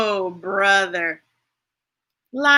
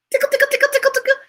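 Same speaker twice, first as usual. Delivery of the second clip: playful tickle; 13 semitones higher, much faster than usual. Acted.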